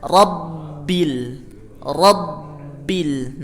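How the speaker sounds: Rabbil with doubled b pressed; over enunciating. Shown as a demonstration. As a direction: stress the bb in Rabbil. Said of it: "Tapi ditekan".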